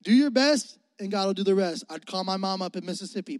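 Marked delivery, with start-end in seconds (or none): 0.0-1.8 mom's saying. Retold or imitated. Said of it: "she would say".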